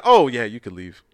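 imitating an offhand, casual dismissal; nonchalant. Killer letting the little guy leave, mock-nonchalant. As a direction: toss it off low, as if nothing happened. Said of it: "He said it so nonchalant".

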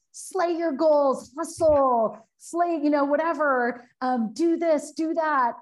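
sarcastic imitation of a self-help hype speaker; mock hype coach. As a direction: ham up a hustle guru shouting slogans. Mocking hype seminar slogans.

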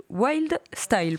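"wild style" said slowly with a heavy French accent; careful, French-accented "wild style"; French-accented English. Real, not acted. Radio host reading a graffiti term to guest, French accent. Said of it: "Pardon pour mon accent".

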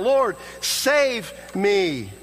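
high, drawn-out cry for rescue; retold desperate cry. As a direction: cry out slowly to the Lord for saving. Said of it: "he cried out".

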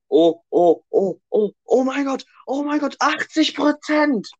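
high excited shriek building up; shrieking jackpot winner. Real, not acted. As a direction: squeal like you just won. Love test shows eighty percent. (kreischend vor Aufregung, hoch)

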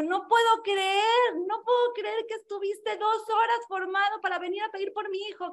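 a touch of tearful disbelief; retold crying plea. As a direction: voice the weeping father, lightly. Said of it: "empezó a llorar".

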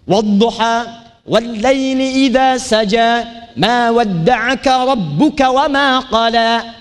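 slow chanted recitation, vowels kept as A; Quran recitation with A. Shown as a demonstration. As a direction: recite wallaili idha saja with open A. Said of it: "A, tapi yang ini tidak".

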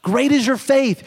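high, slow quoted proclamation; ringing, high-pitched quotation; exclaimed praise. Retold or imitated. Preacher repeats Jesus's exclamation.

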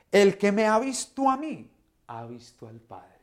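a patient, loving answer from Jesus; Jesus answering his friends with love, not scolding. Acted. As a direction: gently set them straight, in a preacher's voice. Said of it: "Jesús los amaba hasta en la forma de responderles".

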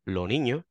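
"lo niño" with no trace of the s; s dropped. Shown as a demonstration. Showing the northern caricature: s dropped. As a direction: say "lo niño" with the s simply gone. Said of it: "yo no digo".

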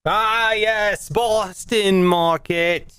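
drawn-out, hammed-up Boston accent; slow, half-committed Boston accent; awful Boston accent. Shown as a demonstration. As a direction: attempt a Boston accent, badly. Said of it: "that was my Boston accent".

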